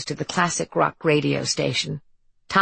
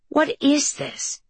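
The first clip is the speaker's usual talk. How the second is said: alarmed; 9 semitones higher, much slower than usual. A narrator's reading. Harper alarmed.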